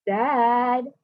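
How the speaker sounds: a mild, lightly voiced kid's holler. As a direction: call out for dad across the house. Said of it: "when Harvey hollered".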